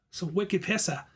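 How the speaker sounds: put-on a light Boston accent on the phrase. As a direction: drop into a thick Boston accent. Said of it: "my horrible Boston accent".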